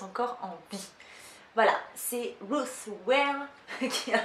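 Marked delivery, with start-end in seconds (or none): 2.5-3.5 "Ruth Ware" said with a self-mocking bilingual accent; "Ruth Ware" in a jokey English accent, slowly. Real, not acted. Introducing a thriller author with a teasing bilingual accent. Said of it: "avec mon super accent de bilingue".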